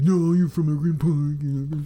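hammed-up indignant protest; angry Chicagoan. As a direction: imitate an irate caller from Chicago. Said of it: "with angry Chicagoans".

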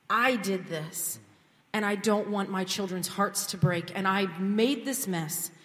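retold heartfelt plea for help; earnest prayer. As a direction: pour it out to God earnestly. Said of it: "my prayer went something like this".

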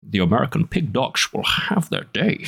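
put-on old man Connery voice. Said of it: "Old man Connery voice".

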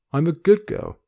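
high, small, pleading whimper; a broken girl whimpering her plea. Acted. Reading aloud to listeners, Jane's line as a high whimper. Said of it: "Jane whimpered".

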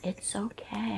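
hushed, soothing counselor whisper; calm them down like a therapist. Acted. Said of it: "Don't talk to me in your therapist's voice".

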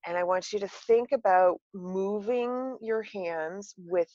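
soft, calm guided breathing; soothing relaxation guide, gently; therapist voice. Shown as a demonstration. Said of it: "I'm gonna put my therapist voice on now".

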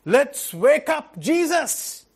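a lightly voiced grumbling crowd; mocking complainers. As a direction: act out the whining disciples. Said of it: "It was like".

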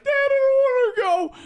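put-on high pleading kid; whiny kid voice. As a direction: whine to dad, half crying. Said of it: "I'm throwing up on the side like".

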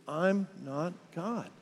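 hushed, deliberate repeat-after-me; under the breath. Shown as a demonstration. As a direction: lead them quietly, spacing each word. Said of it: "just kinda under your breath".

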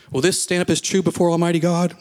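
lightly acted minister's solemn challenge, pitched slightly up; mildly put-on voice of a deliverance minister; deep-voiced minister. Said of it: "He has this really deep voice".

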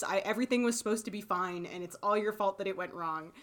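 imitating a childish angry rant; mock angry rant. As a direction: sulk and blame him. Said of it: "And then C B is like".

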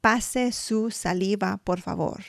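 "Pase su saliva, por favor" in careful Spanish; Spanish phrase. Shown as a demonstration. Hygienist to patient, politely in Spanish. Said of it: "I say".

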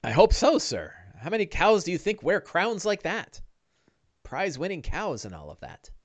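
high, lilting servant voice; high-voiced helper musing to the boss; deferential sidekick Bing. Game master plays Bing.

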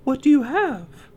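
put-on high, sweet girl voice; polite high young girl; girlish voice. Snow White asks peddler.

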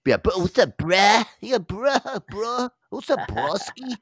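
high, loud mock bro greeting; bro-speak. Joking with a co-host about how he talks, hammed-up bro-speak. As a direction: call out "bruh" in an exaggerated high bro voice. Showing off how he says bruh.

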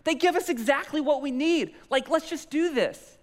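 high, loud exasperated inner rant; spinning internally. Retold or imitated. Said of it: "I was spinning internally".

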